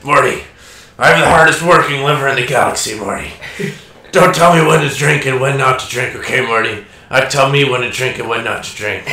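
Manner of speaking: a hint of a drunk mad scientist; lightly voiced Rick yelling at Morty; Rick impression. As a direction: rant at your sidekick, half drunk. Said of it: "Dan does a really good Rick voice".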